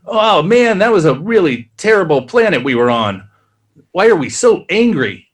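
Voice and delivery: high, rueful waking-up complaint; high waking groan. Retold or imitated. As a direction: crew stretching awake, griping, corrected take. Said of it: "they don't say good".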